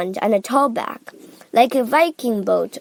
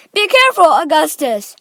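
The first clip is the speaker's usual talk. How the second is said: loud, raised warning; Mister Gloop; 6 semitones higher, 8 dB louder than usual. A narrator's reading. Father warning his son at the river, shouting. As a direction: shout a warning, starting high. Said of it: "shouted Mister Gloop".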